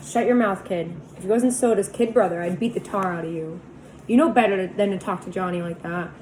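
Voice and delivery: put-on Two-Bit scolding the kid angrily; angry scolding. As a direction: put the kid in his place. Two-Bit scolds after slap.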